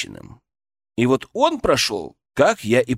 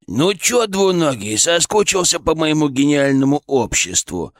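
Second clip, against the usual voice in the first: squeaky rubber duck voice; squeaky creature voice; 2 semitones higher than usual. Acted. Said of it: "до боли знакомый скрипучий голосок".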